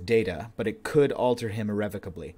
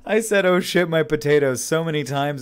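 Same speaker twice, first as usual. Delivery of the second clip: exasperated; 6 semitones higher, 8 dB louder than usual. Retold or imitated. Exasperated retelling.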